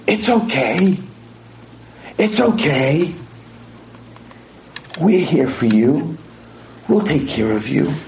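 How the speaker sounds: slow, lilting reassurance; reassuring. Retold or imitated. Therapists comfort a screaming patient, reassuring.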